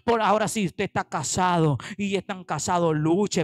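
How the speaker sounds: usual speaking voice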